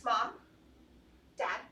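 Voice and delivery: dramatic stage monologue calling parents; grand tragic wailing. Acted. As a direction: wail for mom and dad, building. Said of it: "dramatic monologue".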